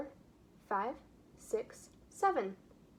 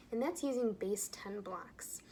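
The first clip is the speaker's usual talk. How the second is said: whispering. Real, not acted. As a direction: breathe it out as a whisper. Whispered aside in lesson.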